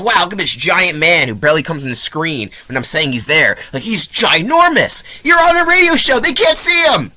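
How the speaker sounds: high, mocking impression of a dumb radio host; mocking the radio guy. Reviewer mocks the radio host's commentary, high mocking voice. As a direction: squeal it like a clueless announcer gushing over nothing. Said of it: "This guy's like".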